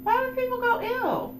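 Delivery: squeaky high voice. Acted. A reader on stream asking why people go ew, in a squeaky high voice.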